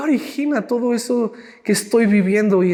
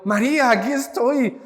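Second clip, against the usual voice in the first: bright gentle call; 3 semitones higher than usual. Shown as a demonstration. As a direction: lift "María" up, warm and inviting. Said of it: "como tú quieras verlo". ("María, aquí estoy" en tono más alto, alegre y acogedor)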